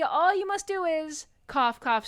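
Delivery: dying ghost pushing harder through the coughs. Acted. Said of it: "continues coughing".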